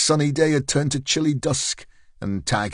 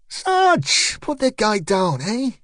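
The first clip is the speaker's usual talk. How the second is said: higher, louder urgent plea to the sergeant; higher, urgent call to the sarge; 11 semitones higher, 3 dB louder, slower than usual. Acted. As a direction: call out to stop the fight. Calling out, rushing in.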